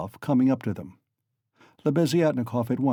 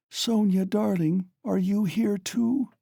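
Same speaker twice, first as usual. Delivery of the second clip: caressing surprise; 10 semitones higher, slower than usual. A narrator's reading. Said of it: "softly and caressingly".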